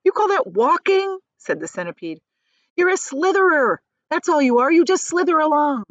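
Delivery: mocking centipede. A narrator's reading. Centipede mocks earthworm, measures high.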